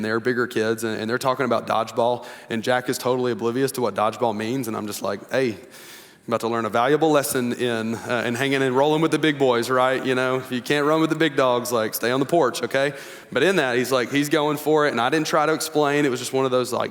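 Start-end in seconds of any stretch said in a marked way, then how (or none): 5.3-12.9 mock dad inner voice. Dad's inner voice to son.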